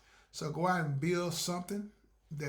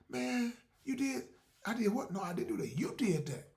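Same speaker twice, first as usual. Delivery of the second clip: mock accusation; 5 semitones higher than usual. One friend blaming another, mock accusing. Acted quarrel between friends.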